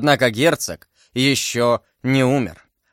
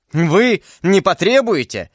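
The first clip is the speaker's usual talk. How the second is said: «Вы не потребуете» slowly, each word stressed, pitched up; astonished word-by-word stress; 5 semitones higher than usual. A narrator's reading. Buckingham answers Felton's demand in astonishment, stressing each word of «Вы не потребуете». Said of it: "делая ударение на каждом слове".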